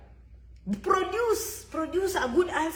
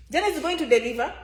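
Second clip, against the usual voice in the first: faster and firmer; emphatic repeat; faster than usual. Shown as a demonstration. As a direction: punch the promise.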